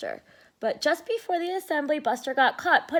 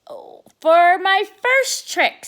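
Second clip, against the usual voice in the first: stage announcer; 6 semitones higher, 8 dB louder, slower than usual. Acted.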